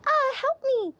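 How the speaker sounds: high, loud cry for help. Real, not acted. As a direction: call out for help in the heat. Too hot outside, cries for help.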